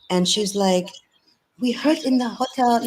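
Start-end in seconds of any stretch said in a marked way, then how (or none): 1.6-2.8 put-on a half-hearted try at an Indian accent, a bit higher; abandoned Indian accent. Quoting the Indian woman from the hotel, faint Indian accent attempt. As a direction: start a faint Indian accent, then give it up. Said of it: "I can't do the accent".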